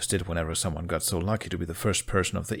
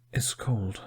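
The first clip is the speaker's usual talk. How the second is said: whisper. A narrator's reading. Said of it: "he whispered".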